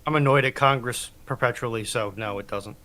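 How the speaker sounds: normal talking voice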